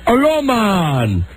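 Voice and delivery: slow, sing-song island driver; lilting Caribbean driver greeting; island accent. Retold or imitated. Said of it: "the guy says".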